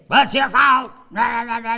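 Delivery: high, loud, far-off mock shouting; hammed-up blaring yell; mock angry yell. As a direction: bark it like a hothead picking a fight. Mock angry yelling at someone.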